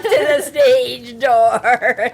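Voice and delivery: slow, laughing through words; words broken by laughter. Real, not acted. Laughing while describing.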